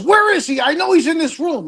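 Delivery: suspicious mother. Retold or imitated. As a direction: play the mother hunting for the hidden boyfriend. Mother searching the room.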